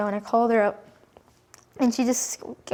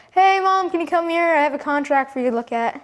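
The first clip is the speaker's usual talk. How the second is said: high raised call, easing down toward the end; retold call-out; 5 semitones higher than usual. Boy calling his mom about a book contract, retold shout. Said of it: "I just kinda shouted out".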